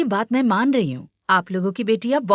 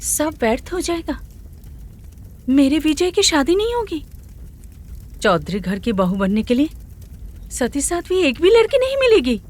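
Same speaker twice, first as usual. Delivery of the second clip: 1 despairing lament; 7 semitones higher than usual. Acted. Queen mother despairs.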